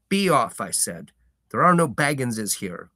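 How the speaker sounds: country farmer shooing a stranger off his lane; gruff farmer. Acted. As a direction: warn off a stranger, firm and blunt. Farmer voiced in story.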